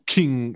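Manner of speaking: ringing "king" of saber on metal; quick mouth-made sword clink; imitated metal clang. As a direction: mimic a blade striking metal. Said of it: "like, saber on metal".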